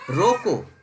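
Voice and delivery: रोको alone as a firm, falling command; firm stop order. Shown as a demonstration. Father on the phone ordering a guest stopped, firm command. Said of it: "आपके पापा phone किए, बोले".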